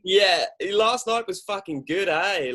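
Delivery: mock Australian accent. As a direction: ham up a chuffed Aussie mate after a big night. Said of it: "saying "a" at the end of everything".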